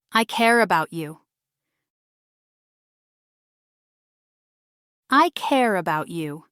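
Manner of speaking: tender, sincere declaration of care; warm and caring. Shown as a demonstration. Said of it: "warm, soft tones and emotional rhythm".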